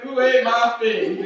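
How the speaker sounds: hammed-up tourist French; terrible French accent. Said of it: "Really terrible accented".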